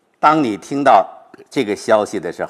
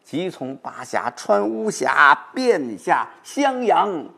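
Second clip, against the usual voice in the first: slow, higher flowing line with no break; no pause; 6 semitones higher, much slower than usual. Shown as a demonstration. Professor showing the line must not pause. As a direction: run it on without stopping. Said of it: "不能停顿".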